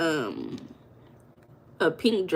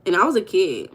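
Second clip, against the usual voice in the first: raised, louder gush; breathless fan excitement; excited retelling; 4 dB louder than usual. Retold or imitated. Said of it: "I said".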